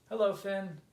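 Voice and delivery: high, loud hello; bright greeting call. A narrator's reading. Kit greets Finn as his boat arrives, greeting call. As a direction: call back in welcome.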